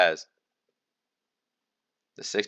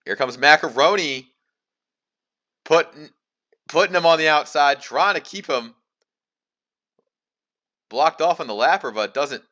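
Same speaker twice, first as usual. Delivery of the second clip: lively, slightly raised commentator's call; live race play-by-play; 3 semitones higher than usual. Acted. Race commentator calling the battle for the lead, live play-by-play.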